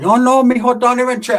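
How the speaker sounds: high-pitched mock-protesting tia; put-on aunt voice. Tia protesting to her nephew, put-on high voice. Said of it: "you don't talk like that".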